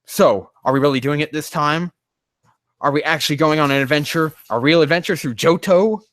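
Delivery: a touch of stern hope, rising toward the end; hopeful and stern. Shown as a demonstration. Jakey asking if the adventure is real, hopeful and stern. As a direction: sound doubtful yet desperately hopeful. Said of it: "A hopeful and stern voice".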